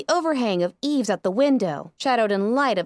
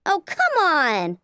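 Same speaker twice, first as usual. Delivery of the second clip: exasperated yell; 5 semitones higher, much slower than usual. Acted. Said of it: "I yelled up".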